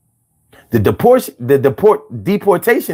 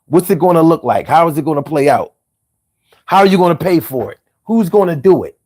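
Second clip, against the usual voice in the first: rapid-fire questions; faster than usual. Retold or imitated. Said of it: "Nobody asked".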